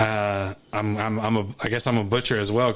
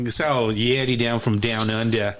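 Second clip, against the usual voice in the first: slow, put-on Australian accent; slower than usual. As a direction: draw it out like a mock Aussie. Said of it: "we were doing Australian people".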